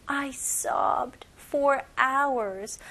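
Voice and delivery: slow whispered drill. Shown as a demonstration. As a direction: drag it out in a whisper. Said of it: "teacher repeats drill in whisper".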